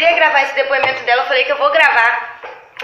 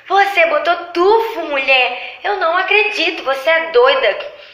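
retold shout in the salon; 3 semitones higher than usual. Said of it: "gritou no salão".

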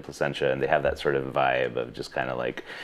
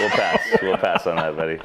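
laughing refusal; 4 semitones higher, 5 dB louder than usual. Real, not acted. Laughing refusal of more beer.

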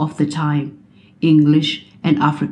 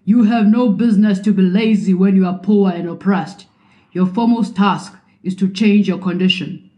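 raised, higher voice, addressing an assembly; bellowing; 4 semitones higher than usual. Retold or imitated. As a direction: proclaim it like a stern headmaster. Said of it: "who bellowed at a morning school assembly".

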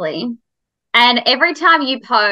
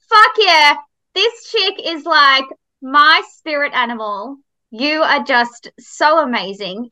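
excited; 3 semitones higher than usual. Retold or imitated. Retold excited thought.

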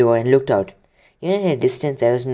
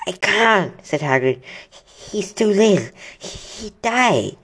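pleading Hagrid; 7 semitones higher, much slower than usual. Acted. Hagrid refusing, upset.

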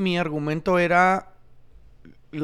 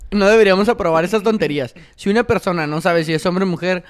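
mock outraged reading; 4 dB louder than usual. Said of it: "debería leer antes".

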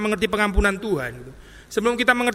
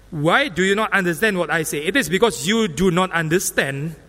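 mock circular reading; slower than usual. Shown as a demonstration. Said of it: "ngomong sama lagi".

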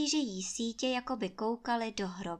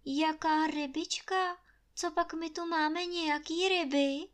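high, wondering question; surprised; 7 semitones higher than usual. A narrator's reading. Anče wondering aloud at Trautenberg, surprised. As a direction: sound puzzled and innocent. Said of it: "diví se Anče".

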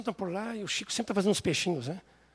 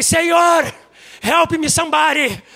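loud, high, frantic plea with laughter; panicked cry for help; 8 semitones higher, 11 dB louder, slower than usual. Retold or imitated. Preacher retelling his terrified night cry to God. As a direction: cry out to God in mock terror.

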